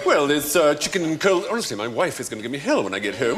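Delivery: put-on borrowed upper-class English accent; posh English accent. Server confiding in customer, posh English. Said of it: "now I've got your accent".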